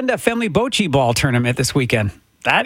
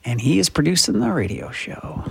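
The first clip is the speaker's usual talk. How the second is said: slightly raised radio patter; lightly put-on on-air announcer voice; put-on radio host voice; 4 semitones higher than usual. Real, not acted. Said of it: "talk to you in this voice".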